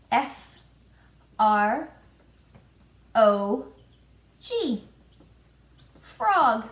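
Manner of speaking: each letter of "F R O G" said apart, then "Frog" punched loud; spelling out letters. Shown as a demonstration. Teacher spelling a word for young kids, letter by letter. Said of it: "frog starts with the letter F".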